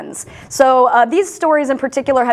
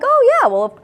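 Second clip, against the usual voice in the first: mock kid; 3 semitones higher than usual. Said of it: "kids just being like".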